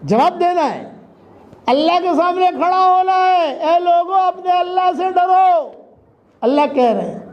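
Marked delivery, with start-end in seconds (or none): 1.7-5.7 preacher's call. Real, not acted. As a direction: call out to the crowd, stretching the endings. Preacher calling people to fear God.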